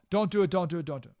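repeated mock pleading, fading out; hammed-up nervous begging; mock fearful pleading. Advisors pleading against the invasion, fading mock fear. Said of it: "They were fearful".

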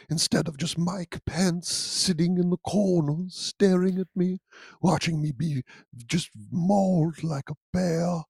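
soft, breathy little bear voice; lightly voiced gentle cartoon bear; Winnie the Pooh voice. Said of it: "Winnie the Pooh was capable of blackmail".

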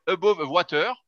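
French speaker's attempt at an English accent. Shown as a demonstration. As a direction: lightly put on an English accent. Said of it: "avec mon accent anglais". (léger accent anglais)

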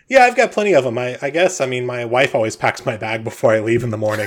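chatty husband with lifts in pitch; Bob, cheerfully oblivious. Acted. Game master plays Bob.

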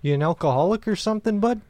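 Canadian drinking buddy; put-on Canadian accent. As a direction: rib him in a Canadian accent. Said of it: "very Canadian accent?".

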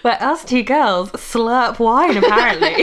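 slow, laughing through the words; giggling while introducing. Real, not acted.

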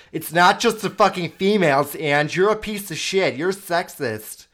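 put-on girl voice. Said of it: "my girl voice".

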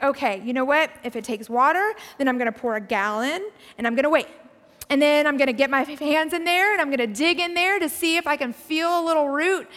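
brisk, pushy self-talk in mock impatience; impatient. Preacher acting out her impatient self on waiting days, impatient. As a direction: rattle off your plan, itching to get on with it. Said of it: "'cause I'm impatient".

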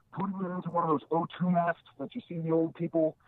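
garbled phone audio cutting out; dropping out like underwater. Real, not acted. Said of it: "it just went away again".

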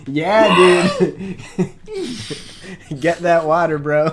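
loud hype-bro cheer; frat bro. Pretend. Hyping friend to chug.

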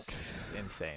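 slow hushed whisper. Real, not acted. Hushed after a shh, slow whisper. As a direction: breathe it out as a secret.

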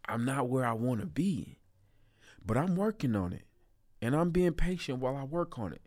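gentle, patient self-talk; kinder tone. Shown as a demonstration. Showing viewers a kinder inner voice, gentle. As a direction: speak to yourself kindly. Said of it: "You can literally hear the tone in my voice change".

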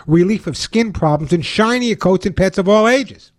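upbeat radio ad read; chipper 1950s ad. Acted. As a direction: sell it like an old-time pitchman. Host reads his own ad.

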